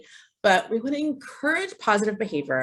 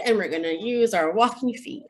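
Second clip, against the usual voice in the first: cheerful teacher; 2 semitones higher than usual. Shown as a demonstration. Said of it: "So we'll say".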